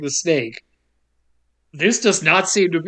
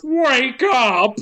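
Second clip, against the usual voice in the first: mock yell; 6 semitones higher than usual. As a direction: imitate a yell without full volume. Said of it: "but the host yells".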